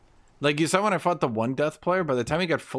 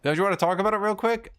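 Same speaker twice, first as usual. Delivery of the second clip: high pleading; 8 semitones higher, 4 dB louder, faster than usual. Retold or imitated. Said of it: "He's like".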